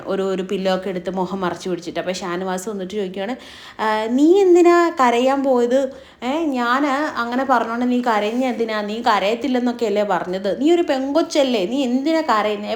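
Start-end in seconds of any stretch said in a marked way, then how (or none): 3.8-12.7 a touch of teasing scorn; mocking. Shanavas following the crying Anu and teasing her, mocking. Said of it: "just കളിയാക്കിക്കൊണ്ട് തന്നെയാണ് സംസാരിക്കുന്നത്".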